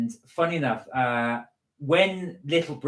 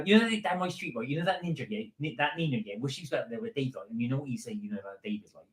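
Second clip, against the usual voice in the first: put-on West Country gossip accent; 6 dB quieter, faster than usual. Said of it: "So it all glottals into one".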